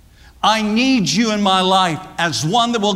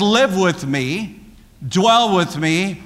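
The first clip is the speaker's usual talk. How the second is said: slow deliberate reading; slower than usual. Shown as a demonstration. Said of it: "depending upon your translation".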